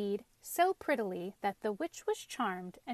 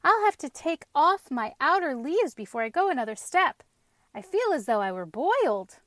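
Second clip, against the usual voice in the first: out of breath; 5 semitones higher, 7 dB louder than usual. A narrator's reading. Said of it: "terribly out of breath".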